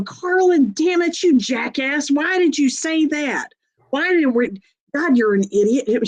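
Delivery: mother scolding herself. Retold or imitated. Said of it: "my mother will say her own name and go".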